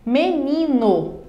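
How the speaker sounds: Menino said slowly, syllable by syllable; teacher stretching out Menino for the class; slow example word. Shown as a demonstration. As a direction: pronounce Menino slowly, each syllable clear. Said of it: "Portanto, ela tem três sílabas".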